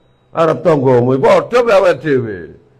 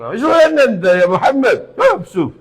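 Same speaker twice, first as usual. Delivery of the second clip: high, loud mock scolding in an Arab man's voice; loud put-on Arab rebuke; 11 semitones higher, 4 dB louder than usual. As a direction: play the Arab man telling him off. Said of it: "digegeri mbek wong Arab".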